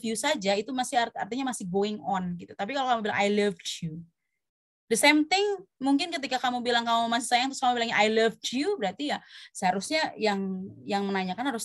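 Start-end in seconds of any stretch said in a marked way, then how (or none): 3.2-4.0 "loved" with an audible final d; past-tense ending. Shown as a demonstration. Teacher contrasting it with ongoing love, "loved" with its final d sounded. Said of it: "Ada dehnya di belakang". 8.0-8.8 "loved" with an audible final d; past-tense ending. Shown as a demonstration. Teacher showing a wrong answer to a partner, "loved" with final d. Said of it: "Ada dehnya di belakang".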